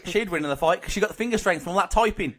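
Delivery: hammed-up Aussie accent, slipping towards Cockney; wobbly comic Australian accent. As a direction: argue the case in mock Australian.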